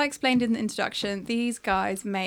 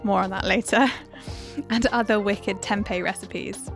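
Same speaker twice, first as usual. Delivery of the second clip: upbeat host intro over music; podcast intro read. Acted. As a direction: read it like a show opener.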